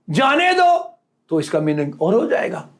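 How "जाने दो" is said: जाने दो set apart from मत, pitched higher; separate phrase after comma. Shown as a demonstration. Preacher finishing the comma demo, जाने दो set apart. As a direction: say जाने दो as its own instruction. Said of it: "फिर कामा लगाए".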